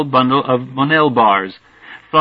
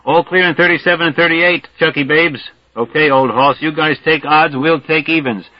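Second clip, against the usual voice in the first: calling out, higher-pitched; shouts up tunnel; 4 semitones higher than usual. Acted. Searchers calling to each other up the tunnel, raised shouts. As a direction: call down a tunnel to the search party. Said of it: "here comes dim shouts up tunnel".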